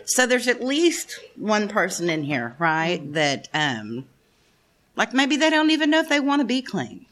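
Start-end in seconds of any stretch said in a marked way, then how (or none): 5.0-7.0 higher, voice welling up with tears; tearful. Real, not acted. To a newcomer at the NA meeting, near tears. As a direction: fight back the tears while speaking. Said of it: "I'm not supposed to cry today".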